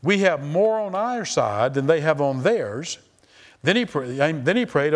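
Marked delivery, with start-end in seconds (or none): 0.0-3.0 steady reassurance. Acted. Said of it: "He just said".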